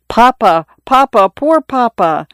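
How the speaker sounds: high, tearful plea; sobbing. Acted. Son weeping over his wounded father, tearful. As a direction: cry out to your dying father. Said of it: "no more crying".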